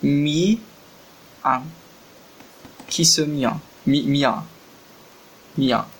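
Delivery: slow, separate syllables with long gaps; sounding out syllables. Real, not acted. Trying to read the Korean word, slow and syllable by syllable. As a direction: sound it out haltingly, one piece at a time. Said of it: "Ki seu, que porra é essa?".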